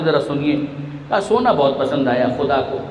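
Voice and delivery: سونا dwelt on so the pun lands; stress on sona. Shown as a demonstration. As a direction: lean on سونا, let the double meaning ring. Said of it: "زو معنی الفاظ استعمال کرتے ہیں". (سونا پر زور، ذو معنی انداز میں)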